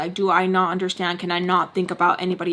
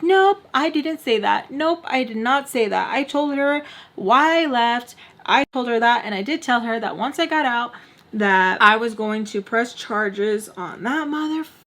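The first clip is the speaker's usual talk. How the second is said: raised, emphatic mock indignation; mom going off; 3 semitones higher than usual. Mom denying what she told grandma, going off. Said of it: "going off".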